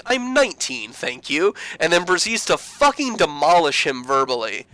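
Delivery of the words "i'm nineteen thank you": much higher, pert retort; indignant correction. Retold or imitated. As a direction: correct him primly. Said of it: "She's like".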